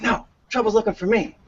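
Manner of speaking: put-on deadpan kid answer; punchline kid. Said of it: "He goes".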